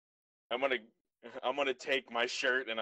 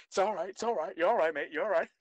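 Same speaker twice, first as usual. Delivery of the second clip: higher-pitched mock Australian accent; Steve Irwin; 7 semitones higher, faster than usual. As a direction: soothe the beast in a put-on Aussie accent. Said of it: "got an Australian accent like I'm Steve Irwin".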